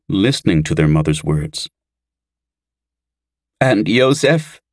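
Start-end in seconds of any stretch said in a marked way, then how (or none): 3.6-4.6 high, drawn-out tearful question; worried girl on the edge of tears; sobbing question. A narrator's reading. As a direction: ask it fearfully, pitched up and slow. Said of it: "said a sobbing Anid".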